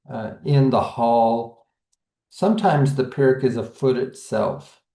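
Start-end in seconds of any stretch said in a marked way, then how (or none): 0.4-1.7 "in the hall" with the stress landing on "hall"; two light beats, then weight: in the HALL; stress on last word. Shown as a demonstration. Teacher giving an anapest example, stress on last word. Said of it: "we get that anapest".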